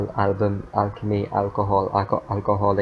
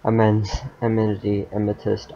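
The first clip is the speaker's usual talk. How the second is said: breathless from reading nonstop; running out of air; out of breath. Real, not acted. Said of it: "I'm running out of breath".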